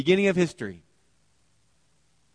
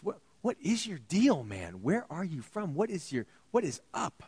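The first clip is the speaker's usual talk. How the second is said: casual Pilate; 4 semitones higher than usual. Acted. Pilate casually pressing Jesus.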